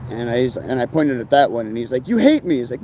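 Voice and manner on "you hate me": mock whiny complaint.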